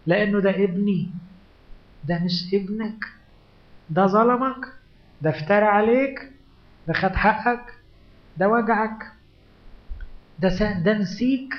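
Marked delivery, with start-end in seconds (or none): 2.0-11.5 heated objection. Acted. A doubter argues against Abraham.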